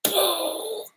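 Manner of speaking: soft, high puff of amazement; stunned exhale. Retold or imitated. Reliving the therapist's revelation, stunned soft breath. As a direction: let out a quiet mind-blown breath. Mind blown by therapist's insight.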